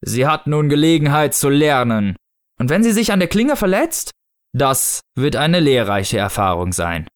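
deliberate and grave, relishing the logic; Snow Father figure. Acted. Snow Father justifying the sword, measured solemn voice.

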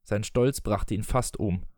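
expressive audiobook reading with voiced dialogue; story narration. A narrator's reading. Reading Peter Pan aloud to listeners, story narration. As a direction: read the tale aloud, measured and articulated.

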